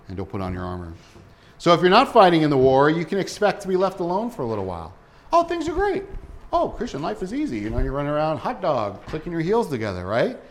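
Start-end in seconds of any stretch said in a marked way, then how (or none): 5.3-10.1 mock carefree. Mocking the careless believer.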